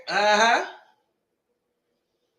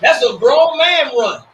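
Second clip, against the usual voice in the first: laughing repeat; 4 semitones higher, 7 dB louder than usual. Real, not acted.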